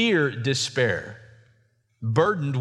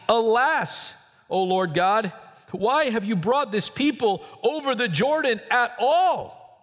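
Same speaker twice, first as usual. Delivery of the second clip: lamenting Joshua; 8 semitones higher than usual. Acted. Joshua cries to God.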